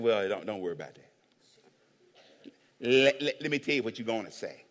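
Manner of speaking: sly low conspiring voice; scheming priests. Acted. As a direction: lean in and plot it quietly. Priests coaching guards, sly low voice.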